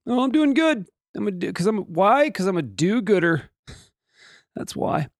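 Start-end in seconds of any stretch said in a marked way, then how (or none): 0.1-3.5 coyote voice. Pretend. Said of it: "Hey, coyote, how you doing?".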